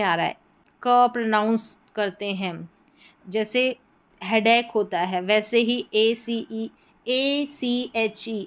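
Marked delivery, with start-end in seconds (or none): 5.2-8.4 letters named one by one, slowly; spelled out slowly. Shown as a demonstration. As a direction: spell out एसीएचई letter by letter, slow. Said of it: "एक pronounce करेंगे". (धीरे-धीरे अक्षर बोलना)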